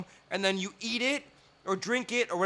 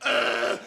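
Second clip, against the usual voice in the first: Netflix groan; 4 semitones higher than usual. Retold or imitated. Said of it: "Netflix is like".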